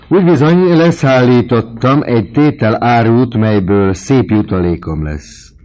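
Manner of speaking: high, loud bragging boast; boastful. Acted. Vautrin brags to the boarders about his profit. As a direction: crow about the deal.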